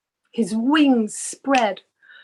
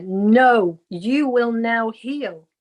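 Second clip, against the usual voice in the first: a louder, insistent "No," then a slow "you will now heal"; the unseen voice pressing its order, slow; loud voice in the ear; much slower than usual. Retold or imitated. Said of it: "it went so loud in my ear".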